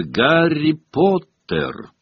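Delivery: slow, high, drawn-out name call; high, lingering call; summons from above. A narrator's reading. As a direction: stretch out the name as an eerie summons. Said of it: "над ними прозвучало".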